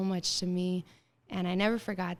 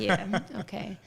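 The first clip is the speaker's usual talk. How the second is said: laughing sarcastic. Retold or imitated. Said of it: "I was like".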